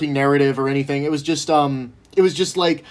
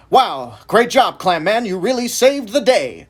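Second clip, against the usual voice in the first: hammed-up police chief; 3 semitones higher than usual. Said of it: "the police chief would show up and be like".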